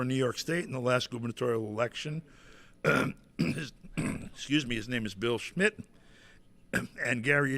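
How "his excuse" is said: throat clearing. Real, not acted. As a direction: voice catching in the throat. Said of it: "Excuse me while I'm choking to death".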